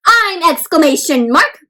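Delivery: loud, bouncy self-introduction; lively character voice. Acted. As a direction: announce yourself with punch. Reads exclamation mark introducing itself.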